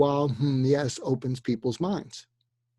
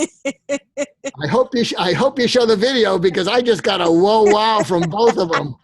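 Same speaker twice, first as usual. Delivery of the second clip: excited; 6 semitones higher, 7 dB louder than usual. Real, not acted. Speaker laughing with the hosts.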